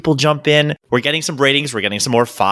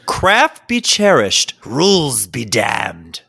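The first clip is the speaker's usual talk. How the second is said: hammy stage actor; 3 semitones lower, much slower than usual. Acted. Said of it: "read it like a thespian that you are".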